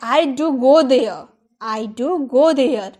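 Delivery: slow, weight on do go; slow emphatic English. Shown as a demonstration. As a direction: insist with do. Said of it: "तो बोलेंगे".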